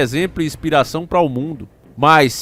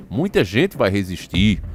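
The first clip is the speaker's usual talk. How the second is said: slow, lower-pitched, mildly ironic quote; somewhat ironic; 5 semitones lower, slower than usual. Retold or imitated. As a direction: draw it out with a touch of irony. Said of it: "ele fala isso meio com tom irônico".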